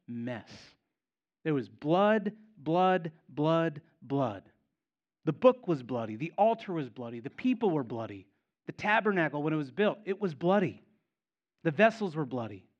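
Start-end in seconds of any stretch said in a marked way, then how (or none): 1.4-12.7 emphatic preaching. Real, not acted. Preacher hammering the bloody scene.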